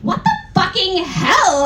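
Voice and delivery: a hammed-up angry demand; mock outrage at Draco. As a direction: play the anger big but clearly fake. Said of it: "I asked angrily".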